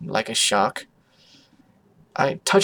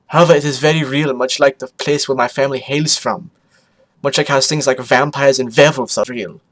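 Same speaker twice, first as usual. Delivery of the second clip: put-on louder voice in rough foreign accent; Photo Finish; 6 dB louder than usual. Explaining where the family is from, rough put-on accent. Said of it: "Many ponies think my accent is fake".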